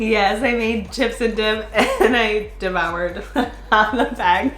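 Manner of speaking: slow, laughing through the words; giggling confession. Real, not acted. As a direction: admit it while giggling. Admits eating junk food, giggling.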